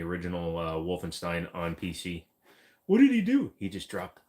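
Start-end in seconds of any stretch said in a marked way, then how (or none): 2.9-3.5 excited squeal. Acted. Excited mock question.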